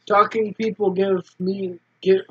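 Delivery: lightly voiced laid-back boy; a hint of a cagey street kid; character voice.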